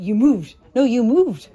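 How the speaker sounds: loud mock accusation; retold bickering. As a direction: throw the blame back, punchy. Retelling a petty blame argument.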